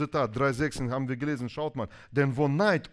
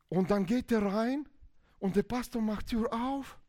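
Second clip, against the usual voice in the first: ordinary talk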